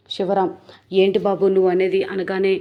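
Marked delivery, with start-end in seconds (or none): 0.9-2.0 louder, startled disbelief; shocked question. Retold or imitated. Uncle stunned by his nephew's phone news, shocked. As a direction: blurt it out in shock.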